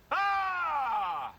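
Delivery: very high, loud scream; piercingly high open yell; loud demo scream. Shown as a demonstration. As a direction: outdo the student with a scream. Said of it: "You gotta be louder than me".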